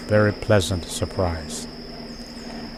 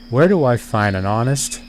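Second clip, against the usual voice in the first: honest leaned on a little; light emphasis landing on honest; stress on honest; 2 semitones higher than usual. Shown as a demonstration. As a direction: give the word honest the weight. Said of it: "the emphasis is on the word honest".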